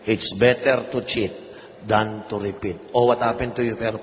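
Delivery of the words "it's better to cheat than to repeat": each word of "It's better to cheat than to repeat" spaced out and stressed, slow; slow emphatic motto. Shown as a demonstration. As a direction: lay out the motto word by word for the congregation. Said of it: "maganda yung motto niya". (binibigkas nang mabagal at may diin ang "It's better to cheat than to repeat")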